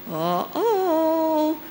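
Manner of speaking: high, drawn-out sing-song uh-oh; warning uh-oh. Acted. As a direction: sound a mock alarm, holding the last note high. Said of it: "and it says".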